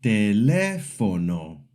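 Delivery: teLÉfono, slowly, second syllable strong; slow teléfono with the weight on lé. Shown as a demonstration. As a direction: lean on lé in teléfono. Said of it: "the second syllable is strong".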